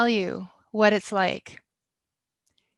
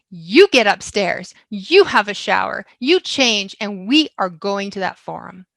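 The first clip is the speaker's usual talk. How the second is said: husband's rallying speech; 7 dB louder than usual. Retold or imitated. Husband ordering his wife to the forum, loud and fierce. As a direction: rouse her out of self-pity.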